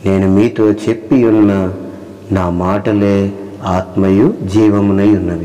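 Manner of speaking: slow, solemn reading of the verse; solemn slow scripture recital. Acted. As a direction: read the Bible words slowly and weightily. Reads scripture aloud, slowly.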